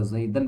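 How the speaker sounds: زیدن said zaidan, ending in -an; case ending demo. Shown as a demonstration. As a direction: land clearly on the -an ending. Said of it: "ہم تلفظ کر رہے ہیں اس پہ".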